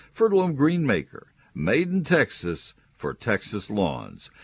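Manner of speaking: high, eager sales push; enthusiastic pitch. Acted. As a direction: lift it up to sell the name. Ad tagline push.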